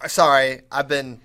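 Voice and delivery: hint of a bad Russian accent; lightly put-on Russian accent; fake Russian accent. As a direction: imitate your own mock-Russian small talk. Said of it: "fake bad Russian accents".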